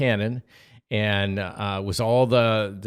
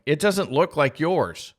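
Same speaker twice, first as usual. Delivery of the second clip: put-on child's complaint; 6 semitones higher, 3 dB louder, slower than usual. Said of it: "but I'm like".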